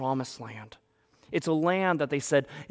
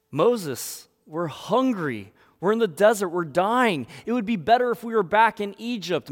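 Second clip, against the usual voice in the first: raised, urgent group grievance; mock complaining; 6 semitones higher, 5 dB louder than usual. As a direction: wail to Moses as hungry Israelites. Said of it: "The people are complaining".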